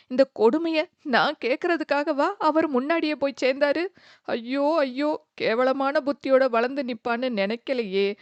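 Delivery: a grieving mother beating her head, lightly voiced; mild mock wailing. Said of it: "தலையில் அடித்து அழ ஆரம்பித்தார்". (மெல்லிய அழுகையுடன் புலம்பல்)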